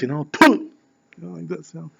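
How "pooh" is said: quick imitated spit; spitting sound. Storyteller shows how the rabbi spat, imitated spitting. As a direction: mime a spit with a short "pooh". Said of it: "One is that he spit".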